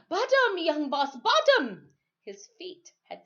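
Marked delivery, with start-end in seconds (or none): 0.1-1.9 loud, high triumphant yell from the water. Acted. Timothy yelling to the boy from the water, loud and high. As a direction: shout it out as his feet hit sand. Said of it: "Soon he yelled".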